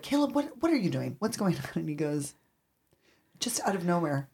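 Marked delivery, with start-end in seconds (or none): 0.0-1.6 put-on calling out to child. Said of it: "you're like".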